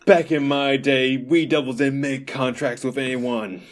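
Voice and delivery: loud, drawn-out opening, comic reminiscing; Past Devil old-timer. Pretend. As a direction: lightly play a nostalgic old-timer. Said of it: "Past Devil was just like".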